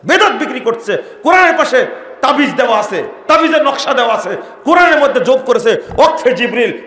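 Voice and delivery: high, loud condemning rant; preacher denouncing sellers of the Quran; fiery denunciation. Real, not acted. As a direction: rail against them.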